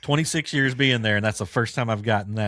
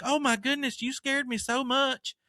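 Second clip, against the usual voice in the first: imitating the lady; slower than usual. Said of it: "she's like".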